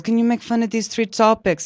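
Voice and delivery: high, put-on voice of the TV guy; imitating the interviewer. Comedian imitates the TV producer, mildly mocking. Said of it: "And then he goes".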